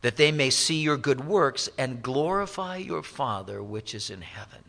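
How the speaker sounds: measured, solemn King James reading; a preacher reading scripture to the congregation. Acted. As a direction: read the old verses with weight. Reads King James scripture aloud.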